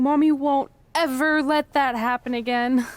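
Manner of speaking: a hint of a doting mother cooing; mock mommy voice. Comforting the long-locked-away object, lightly mock motherly. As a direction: coo it lightly like a mom to a baby. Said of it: "There's something seriously wrong with you".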